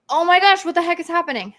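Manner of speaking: high, loud alarmed cry; mock panic. Sellers back in the office in Q1, loud mock alarm. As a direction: play sellers shocked back at work. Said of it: "they go".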